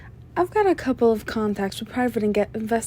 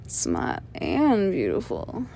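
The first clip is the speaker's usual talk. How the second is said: flirtatious; 5 dB quieter than usual. Acted. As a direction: savor each word, flirting. Flirting with the detective.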